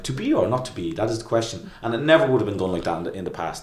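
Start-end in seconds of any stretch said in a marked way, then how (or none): 0.0-1.7 posh English stage accent. Shown as a demonstration. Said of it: "done in this posh English accent".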